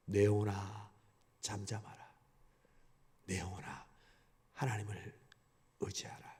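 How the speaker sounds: hushed self-address. Pretend. Preacher quietly addressing own soul.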